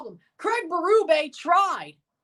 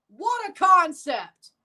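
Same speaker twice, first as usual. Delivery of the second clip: dry sarcasm; slower than usual. Real, not acted. Repeats the sarcastic line.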